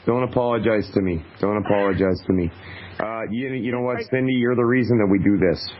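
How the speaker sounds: low, gentle reassurance; comforting. Real, not acted. Radio host to tearful caller, comforting.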